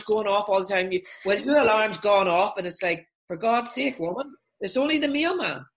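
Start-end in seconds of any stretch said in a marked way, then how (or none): 3.3-5.6 high, fed-up "for God's sake"; exasperated scolding. Acted. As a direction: roll your eyes at a false alarm. Exasperated inner voice scolding alarm.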